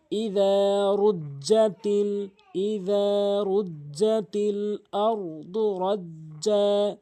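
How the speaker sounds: slow, drawn-out chanted recitation; slow reading. Shown as a demonstration. Teacher showing how slowly to read, slow chant.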